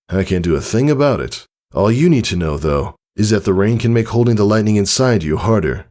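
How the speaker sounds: lightly voiced father, fond then explaining; proud father. Father praising daughter, fond lightly voiced. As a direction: warmly praise her, then go on briskly.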